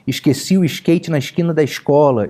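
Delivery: "Esqueci o skate na esquina da escola" with every s hushed to sh; hissing carioca S. Shown as a demonstration. Pastor mocking the Rio hissing s for students, hushed sh. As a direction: hiss the s sounds like a kettle. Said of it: "aquele S de chaleira".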